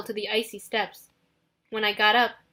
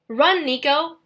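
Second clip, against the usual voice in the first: yelling; 4 semitones higher, 4 dB louder, slower than usual. Acted. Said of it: "I yelled".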